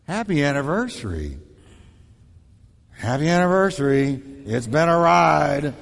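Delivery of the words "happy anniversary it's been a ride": sarcastic wish. Shown as a demonstration. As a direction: make it a dig. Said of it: "with the wrong tone".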